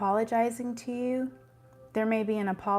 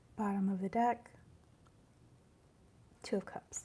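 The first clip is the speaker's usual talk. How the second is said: quiet, soft, calm ASMR voice; 8 dB quieter than usual. Showing how the tarot channel started out: quiet ASMR talking. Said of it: "like this".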